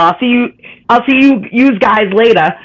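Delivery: Boston goodbye with yous said as YOOZ; Boston yous guys. Retold or imitated. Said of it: "'Cause normally it's".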